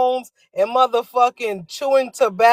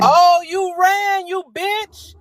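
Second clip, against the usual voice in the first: slow, pitched-up sing-song jeer; mocking taunt; 6 semitones higher, slower than usual. Real, not acted. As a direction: drag it out to mock him. S2 taunting Nino for leaving.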